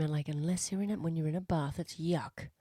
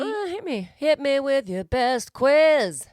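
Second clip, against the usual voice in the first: hammed-up challenge; 7 semitones higher, 6 dB louder, slower than usual. Accepting the quiz challenge.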